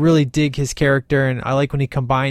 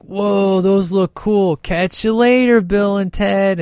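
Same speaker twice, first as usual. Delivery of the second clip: imitating the robots; 5 semitones higher, slower than usual. Robots shrug off Bill and Ted, breezy. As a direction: toss off a breezy goodbye as the robots. Evil robots' casual brush-off.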